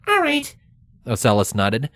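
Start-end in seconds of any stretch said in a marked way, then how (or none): 0.1-0.5 very high, dry changeling voice; high squeaky deadpan teen; deadpan snarker. Acted. Ocellus voiced.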